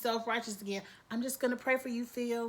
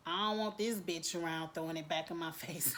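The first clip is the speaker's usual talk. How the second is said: whisper; 5 semitones lower, 5 dB quieter than usual. Retold or imitated. Lady Mae's secret aside.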